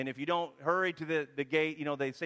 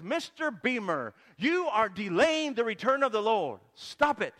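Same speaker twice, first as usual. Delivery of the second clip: slow, higher and louder mock voice from heaven; booming heavenly voice; 3 semitones higher, 3 dB louder than usual. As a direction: play a stern archangel bellowing down to earth, hammed-up. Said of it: "this voice that says".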